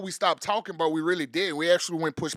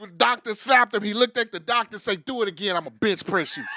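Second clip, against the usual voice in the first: loud hype; 4 dB louder than usual. Acted. Hype man tall tale.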